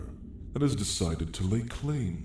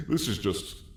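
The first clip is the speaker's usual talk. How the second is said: words breaking into a mocking laugh; 8 semitones higher, 4 dB quieter than usual. Dragon mocking a reluctant sacrifice, laughing. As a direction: laugh through it, pitched up. Dragon mocks the human's plight.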